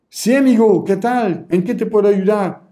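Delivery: friendly seller. Shown as a demonstration. Coach shows how to greet a customer warmly on chat. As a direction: greet the buyer like an old friend. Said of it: "La gente que habla así".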